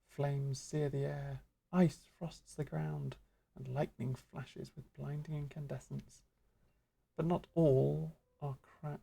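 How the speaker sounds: measured, solemn teacher voice; stately mentor. Acted. Stately mentor lecturing apprentice Tegan, solemn. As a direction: intone it like a grave old master.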